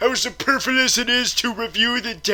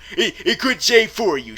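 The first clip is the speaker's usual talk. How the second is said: ordinary delivery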